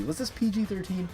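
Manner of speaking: normal talking voice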